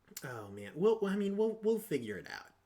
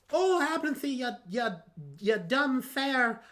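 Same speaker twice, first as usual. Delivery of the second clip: put-on high, drawn-out accented taunt; put-on character voice, stretching the insult; Cather voice; 8 semitones higher, 3 dB louder, slower than usual. Player imagines Cather insulting Aventhy, high accented voice. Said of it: "probably some elvish thing".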